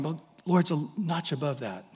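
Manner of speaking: mock naive shrug, Lords said lightly; naive wrong idea. Believer sizing up God wrongly, mock naive shrug. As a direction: toss off "Lords a notch above" as a lazy guess. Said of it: "you're going".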